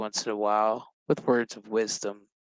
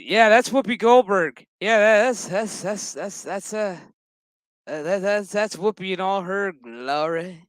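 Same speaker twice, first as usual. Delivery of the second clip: real excited; 6 semitones higher than usual. Real, not acted. Vlogger gushing as Whoopi Goldberg appears, excited. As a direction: gush over the actress on screen.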